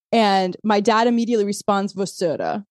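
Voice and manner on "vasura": "Vasura" begun with a V; V pronunciation. Retold or imitated. Podcaster quoting dad's text reply, V pronunciation. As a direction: say "Vasura" with a V sound. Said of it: "with a V".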